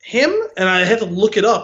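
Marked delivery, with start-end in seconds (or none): 0.0-0.3 sudden realization. Retold or imitated. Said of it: "I was like".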